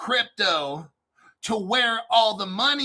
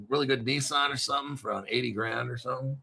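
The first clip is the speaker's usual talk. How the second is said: mock second voice; 5 semitones lower, 6 dB quieter, much faster than usual. Second voice answers host, low fast.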